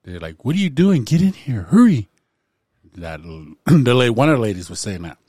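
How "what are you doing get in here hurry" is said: high, loud retold demand; mock scream. One of the ladies hurrying the dude, mock yell. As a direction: imitate an urgent yelled order. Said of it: "they start screaming at the dude".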